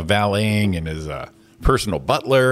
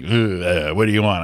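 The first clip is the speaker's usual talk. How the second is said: low, bored grumbling clerk; a grumpy clerk who can't be bothered; 4 semitones lower, slower than usual. Retold or imitated. Grumpy clerk snaps at a waiting customer, bored and low. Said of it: "she wasn't even looking at me".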